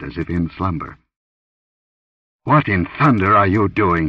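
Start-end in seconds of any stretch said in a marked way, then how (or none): 2.4-4.1 sharp, irritated demand; acid demand. Acted. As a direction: snap at her with acid. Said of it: "he demanded acidly".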